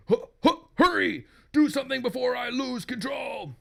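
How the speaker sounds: high, urgent acted cry; panicking husband. Possessed husband urges wife to act, high panic. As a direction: stammer loudly, then plead urgently.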